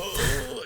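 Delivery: very high, soft "ohhh"; drawn-out mock "oh". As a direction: squeal a small high "oh" of dread. Imitating man as balloon nears bursting.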